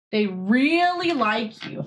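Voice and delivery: slow, coaxing cat-talk. Real, not acted. Coaxing the cat to come say hi, slow and gentle. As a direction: draw out really gently to the cat.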